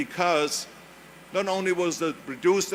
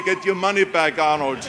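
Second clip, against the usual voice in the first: louder teasing audience jab, laughing; mock heckle; 6 dB louder than usual. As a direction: play the heckler, half laughing. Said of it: "I know you're gonna say".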